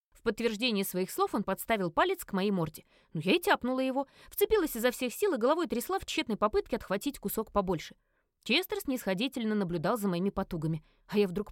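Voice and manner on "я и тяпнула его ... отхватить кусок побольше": usual speaking voice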